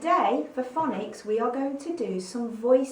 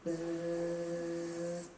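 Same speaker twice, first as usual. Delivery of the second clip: soft steady buzz; quiet bee buzz; 5 semitones lower, 7 dB quieter than usual. Shown as a demonstration. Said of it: "buzz like a bee".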